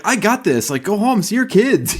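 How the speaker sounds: high, light mock-generous voice; lightly hammed-up generous boss; mock selfless boss. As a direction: play the noble boss who covers for everyone. Mock boss covering for staff.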